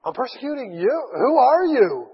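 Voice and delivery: a frightened man who can't believe it; stunned disbelief. Acted. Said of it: "And so he says".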